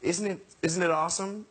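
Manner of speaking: lightly imitated pop-star voice; slightly high, wondering question; impression of a pop star. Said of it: "He's like".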